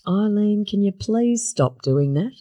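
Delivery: lightly voiced mild husband pleading; a touch of polite, meek pleading; meek, mild grandfather. Granddaughter acts Grandpa asking his wife to stop, lightly meek. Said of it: "who was a meek and mild gentleman".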